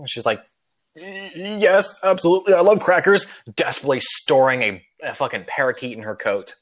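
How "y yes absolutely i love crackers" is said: high, loud, over-keen reply; hammed-up eager yes, pitched high; overeager passenger. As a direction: blurt it out too eagerly, covering up. Lady hiding parakeet, overeager answer.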